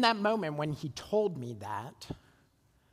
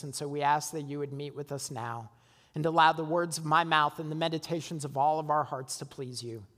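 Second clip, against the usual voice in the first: prayer; 3 semitones lower than usual. Acted. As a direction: lead the church gently in prayer.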